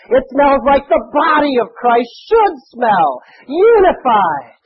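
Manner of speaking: earnest choked-up plea; tearful preaching. Real, not acted. Emotional climax of sermon.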